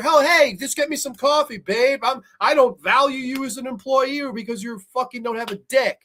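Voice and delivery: mock chauvinist boss. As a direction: play a smug jerk boss, mocking him. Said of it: "So he tells her".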